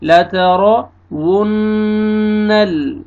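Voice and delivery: "वुन्नल" with rounded W and long hummed N; slow chanted "ला त रॉ वुन्नल"; rounded waw, ghunnah. Shown as a demonstration. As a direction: round the lips on "वुन्नल" and hold the N. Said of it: "होंठों को सही गोल करना है".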